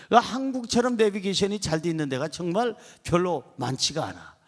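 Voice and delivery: usual speaking voice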